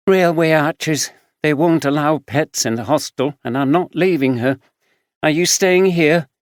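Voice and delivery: caring friend, a bit weary; young homeless woman. Acted. Samantha voiced.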